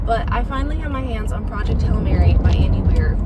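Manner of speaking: loud, thrilled announcement; excited. Real, not acted. Vlogger tells viewers about a long-awaited library book, excited. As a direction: share the big book news with real excitement. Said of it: "so excited".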